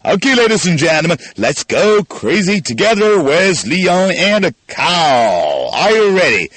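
fired-up announcer hype; excited. Real, not acted. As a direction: pump up the crowd. Hyping up the crazy drill.

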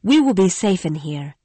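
a lightly voiced young woman, troubled; lightly voiced Christine, remembering; Christine the singer. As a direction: tell it like a frightened young singer. Christine's voice, held.

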